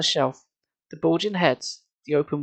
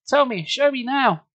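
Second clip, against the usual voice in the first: high slow insistent plea; 10 semitones higher, 3 dB louder than usual. Acted. Pleading for help.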